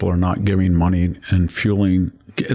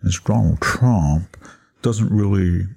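snooty academic voice; 2 semitones lower than usual. Retold or imitated. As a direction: lecture like a smug professor. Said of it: "Victor was trying to imitate a nasal voice".

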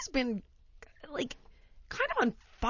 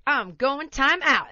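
put-on cheerful toddler; 5 semitones higher, 7 dB louder, slower than usual. Child marching cheerfully.

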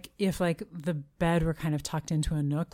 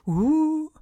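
ghost voice; 9 semitones higher, 4 dB louder than usual. Shown as a demonstration. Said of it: "my noise".

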